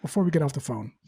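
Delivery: relaxed, reassuring sales-call tone; very calm voice. Shown as a demonstration. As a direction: settle the prospect gently before hanging up. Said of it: "in a very calm voice".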